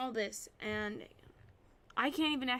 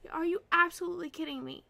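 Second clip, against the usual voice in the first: fast exasperated outburst; 5 dB louder, faster than usual. Real, not acted. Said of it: "I was raging a little bit there".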